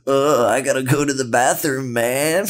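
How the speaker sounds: spaced-out, drawling stoner hippie. Retold or imitated. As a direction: play a laid-back stereotypical hippie. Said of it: "in a very stereotypical, stereotypical hippie voice".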